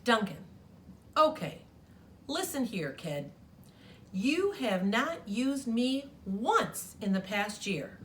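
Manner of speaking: lightly voiced sassy pink crayon; a touch of a miffed crayon scolding the kid; mildly sassy crayon letter.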